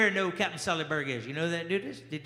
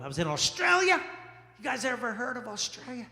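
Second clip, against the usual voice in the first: Australian accent; 4 dB quieter than usual. Shown as a demonstration. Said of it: "I think that's how they talk".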